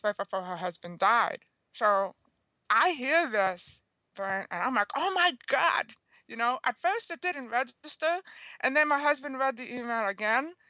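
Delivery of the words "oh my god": stunned gasp. Retold or imitated. Sudden realisation after hearing news.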